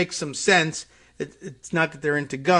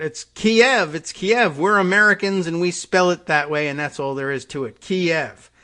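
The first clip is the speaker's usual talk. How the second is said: raised, higher-pitched mock outrage; mock screaming rant; 4 semitones higher, 7 dB louder than usual. Host mimicking a politician screaming on Twitter, mock outrage. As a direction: imitate an indignant online tirade. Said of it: "out screaming on Twitter about".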